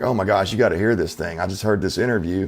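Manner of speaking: ordinary talk, nothing marked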